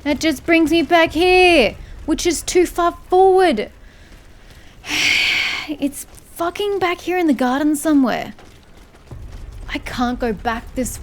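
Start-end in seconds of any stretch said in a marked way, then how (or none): 0.1-7.7 annoyed outburst. Real, not acted. Game sends him back again.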